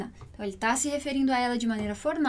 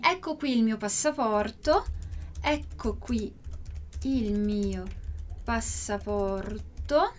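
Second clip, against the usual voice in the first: teacher modelling the line slowly; slow, spaced out; 4 semitones lower, 3 dB quieter, slower than usual. Shown as a demonstration. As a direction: say ecco qui il mio passaporto slowly with long pauses. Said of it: "Mas aqui a gente tem".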